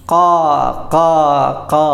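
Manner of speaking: long, separated caws; teacher's demonstration of crow cawing; imitated crow caw. Shown as a demonstration. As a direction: mimic a crow calling. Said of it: "കാക്കൻ്റെ ശബ്ദം എങ്ങനെയാ".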